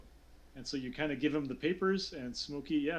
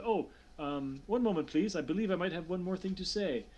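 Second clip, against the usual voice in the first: interrupting counselor; 4 semitones higher than usual. Acted. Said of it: "he looks up and he's like".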